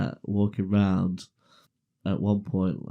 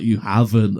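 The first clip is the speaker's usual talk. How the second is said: louder, insistent imitation of mum; insistent mock disbelief; 6 dB louder than usual. Mum hearing her son confess, louder disbelief. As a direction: repeat it louder, refusing to believe it.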